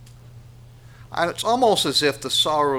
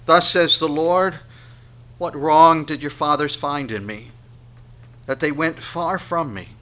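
loud, raised verse reading; forceful, aggrieved public reading; scripture proclamation; 4 semitones higher, 7 dB louder than usual. Acted. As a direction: declare it like a herald.

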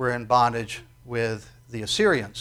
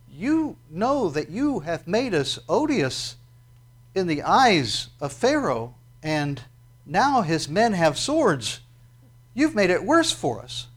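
slow, higher whiny complaint; grumbling Israelites; 5 semitones higher, 4 dB louder, slower than usual. Retold or imitated. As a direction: whine it like a crowd fed up with Moses. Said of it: "they go".

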